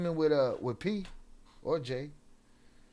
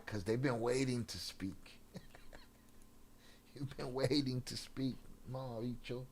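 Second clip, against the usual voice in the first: whisper; 5 semitones lower, 11 dB quieter than usual. Real, not acted. Taunting lurkers who wait to speak.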